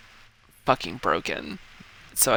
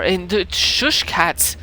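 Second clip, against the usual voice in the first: shushing loudly; 3 semitones higher, 5 dB louder, much slower than usual. Real, not acted. Hushing the cats.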